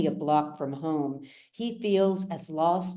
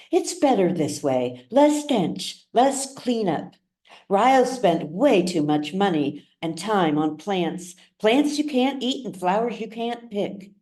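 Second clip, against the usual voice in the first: a lightly voiced dismissive woman, a bit higher; cold stepmother Alma; 4 semitones higher than usual. Stepmother to River over the dead plants, lightly voiced and dismissive. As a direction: brush off the dead man's plants with light scorn. Alma's voice in a read story.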